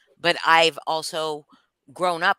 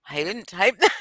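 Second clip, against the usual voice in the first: laughing; 3 semitones higher than usual. Retold or imitated. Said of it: "I was like".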